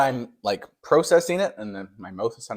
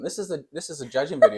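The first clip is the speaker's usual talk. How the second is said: laughing; 6 semitones higher, 4 dB louder, faster than usual. Real, not acted. Laughing off a critique.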